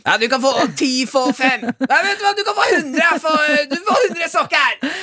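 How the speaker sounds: oversell the sock deal like a frantic clerk; pushy sales clerk. Retold or imitated. Radio host mocking a shop clerk's sock offer, high and excited.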